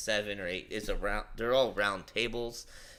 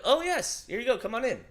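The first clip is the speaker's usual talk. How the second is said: high, bright mock-polite greeter voice, louder; welcoming door staff; 13 semitones higher, 4 dB louder than usual. Door staff greeting them at the list, high mock-polite welcome. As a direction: play the eager host waving them in.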